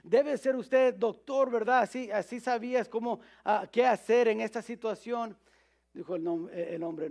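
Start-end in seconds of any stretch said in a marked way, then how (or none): 0.0-5.4 grateful mother. Retold or imitated. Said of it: "la mamá, dijo".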